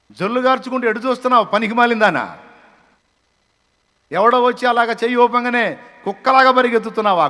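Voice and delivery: loud fiery preaching that keeps building; preaching at full force. Acted. Preacher scolding those who lost their goal, loud fiery sermon. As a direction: hammer the congregation with rising fury.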